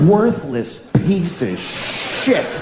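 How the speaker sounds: drawn-out mock insult, rising at the end; slow mock insult. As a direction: spell out the insult slowly, half marvelling. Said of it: "what an indictment".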